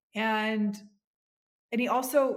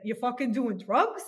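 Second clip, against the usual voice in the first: put-on a light Bronx accent, louder, a rising "drugs"; 3 semitones higher, 5 dB louder than usual. Daughter imitating her Bronx father's alarmed question, light Bronx accent. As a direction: play the dad's Bronx accent with "You fucking doing drugs?" in mock disbelief. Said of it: "and he said it like this".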